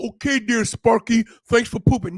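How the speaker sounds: a touch of sugary owner voice; mock sweet owner. Lax owner thanking dog for pooping, mock sweet. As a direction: sarcastically coo at the dog.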